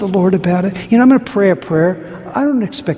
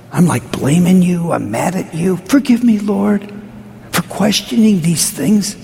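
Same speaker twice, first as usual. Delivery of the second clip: pleading, confessional prayer voice; heartfelt prayer. Pretend. Pastor modelling a worshipper's confession, pleading. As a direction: pray it aloud like you mean it.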